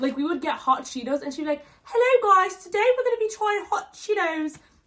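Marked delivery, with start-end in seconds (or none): 1.8-4.6 very high, loud, fake British accent. Imitating a friend pretending to film a snack-tasting video: put-on British accent. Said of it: "normal snacks in a British accent".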